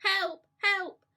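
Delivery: high, loud cries of help; calling for help. Retold or imitated. Grandmother stuck on the ceiling calling for help, high and loud. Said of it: "hear her calling to us".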